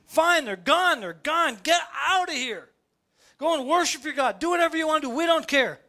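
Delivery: high, dismissive relief; relieved Egyptians. Retold or imitated. Relieved Egyptians shooing Israel away, high dismissive voice. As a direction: wave them off, glad it's over. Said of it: "great relief in Egypt".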